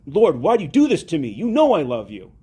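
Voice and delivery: mildly exasperated protest; irritated. Retold or imitated. Peter answering Christ's repeated question, irritated. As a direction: retell it with a touch of annoyance. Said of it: "he gets irritated".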